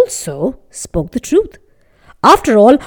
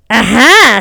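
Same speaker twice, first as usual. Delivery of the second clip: triumphant; 7 dB louder than usual. Acted. Baker triumphant.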